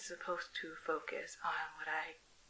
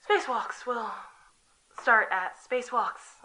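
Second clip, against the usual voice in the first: forced bold start; 6 semitones higher, 9 dB louder than usual. Acted.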